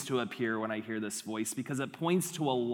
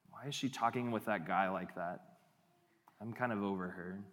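jealous inner voice; 4 semitones lower, 4 dB quieter than usual. Acted. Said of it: "Maybe something like this".

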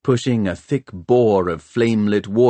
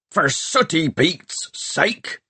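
high, drawn-out cry of outrage; pirate boss's indignant yell; exasperated shout; 8 semitones higher, slower than usual. A narrator's reading. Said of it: "shouted Peavy".

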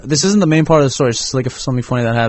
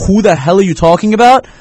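higher-pitched, indignant confusion, retold; baffled retort; 5 semitones higher, 4 dB louder than usual. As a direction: act out a friend who is completely baffled. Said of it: "Oheb is mad confused".

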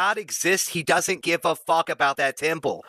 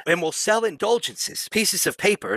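Jesus; 3 semitones higher than usual. Acted. Host invents Gospel of Mark verse, mock Jesus pronouncement. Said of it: "when Jesus said".

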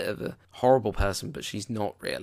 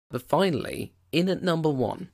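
higher, building announcement of the winner; excited countdown reveal; 7 semitones higher, 3 dB louder than usual. Real, not acted. Host revealing his top musical pick, excited. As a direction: hype up the big number one.

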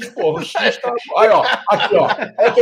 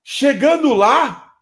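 raised, higher-pitched call to attention; shouting to the group; 3 semitones higher than usual. Retold or imitated. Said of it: "a primeira coisa que eu gritei".

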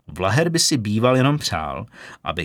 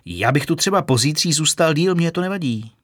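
eager blurting; 5 semitones higher than usual. Acted. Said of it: "vyhrkl Kitka".

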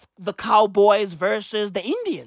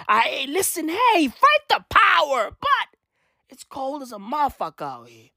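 mock protester plea; 5 semitones higher than usual.

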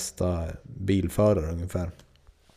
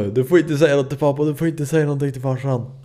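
put-on pleading kid; 6 semitones higher, 3 dB louder, faster than usual. Begging mother to keep secret.

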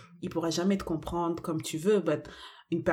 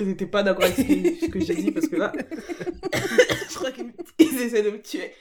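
laughing and coughing; laughing through a cough; 4 semitones higher than usual. Real, not acted. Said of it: "Et je tousse".

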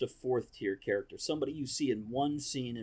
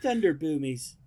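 high, loud mock British accent; imitated British man with a high voice; high-pitched British voice; 4 semitones higher, 6 dB louder than usual. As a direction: squeak it out as a big Brit. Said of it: "in a British accent and a super high-pitched voice".

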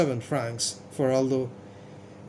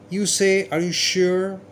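halting, stumbling question, a bit higher; stammering; 3 semitones higher than usual. Acted. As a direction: stammer it out in disbelief. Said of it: "he stammered".

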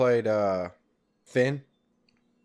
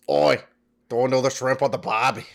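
hammed-up Aussie catchphrase; bad Australian accent. Teasing what Australians hate, in a bad Australian accent. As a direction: do a terrible stock Australian. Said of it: "Australians hate this".

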